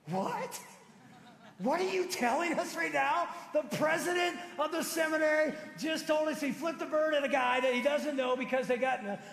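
loud, high incredulous outburst; shocked disbelief. Retold or imitated. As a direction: act out the class's stunned reaction. Students' shocked reaction retold.

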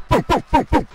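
high, quick booms; playful booms. Real, not acted. Rapid shooting in game.

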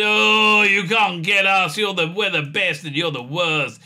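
sneering boast that settles back down; smug. Retold or imitated. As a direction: gloat down at them. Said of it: "is a little bit smug".

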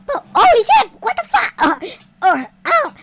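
very high, loud yell; loud startled scream; panicked scream. Real, not acted. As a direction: shriek in fright. Startled by cat.

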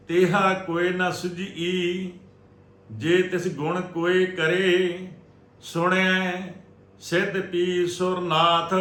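slow, measured sacred chant on a level tone; Gurbani recitation. Shown as a demonstration. Teacher reciting Gurbani for the congregation to learn, measured chanting. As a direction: recite scripture phrase by phrase, drawing out endings.

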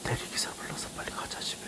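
low hushed whisper. Real, not acted. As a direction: whisper it urgently. Whispering aside to girlfriend.

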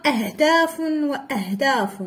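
وأهداف with a glottal stop after wa; hamza kept. Shown as a demonstration. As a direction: sound the a of أهداف even after و in وأهداف. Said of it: "باقي نطقنا الهمزة".

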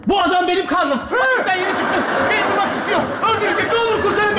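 high, begging cry for help; mock pleading. Begging the commander for rescue. (yüksek sesle yalvararak)

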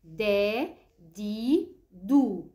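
دا، دي، دو as three drawn-out long vowels; letter sound demonstration. Shown as a demonstration. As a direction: sound out دا، دي، دو one at a time, firmly. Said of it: "بننطق الحرف بالفتح وبالكسر وبالضم".

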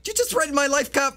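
mock-offended accusation; indignant shock. Robber accusing the cop of threatening him, indignant and high. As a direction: pitch jumps up in outrage.

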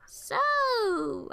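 high, nervous little so; anxious laugh. Acted. A girl nervous alone beside a suspicious man, anxious. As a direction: force a nervous opener. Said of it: "I laughed anxiously".

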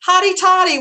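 high, loud Ole Miss cheer; cheer call. Retold or imitated. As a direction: call it out like a game-day cheer. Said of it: "I heard someone say".

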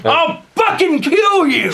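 high strained put-on threat; over-the-top fake menace; mock threat. Mock threat in rap bit.

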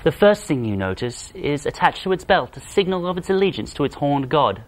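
hushed wildlife narrator voice; nature documentary. Acted. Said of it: "I'm David Attenborough".

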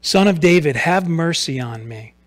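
mild cry for mercy, swelling then falling. Acted. Blind beggar to Jesus passing by, crying out. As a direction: call out with a push on "Son of David". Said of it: "he cried out".

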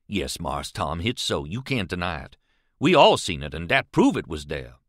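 lightly voiced earnest companion, mostly low in pitch; Jim. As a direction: insist respectfully in a hint of Southern dialect.

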